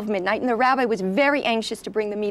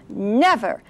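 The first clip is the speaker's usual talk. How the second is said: mock booming rabbi warning; looming voice. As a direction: loom over the crowd, proclaiming. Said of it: "in a big, looming voice".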